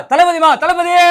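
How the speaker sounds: high shouted name; fan shout. Acted. Fan on banner yelling the leader's name. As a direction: yell it to the leader.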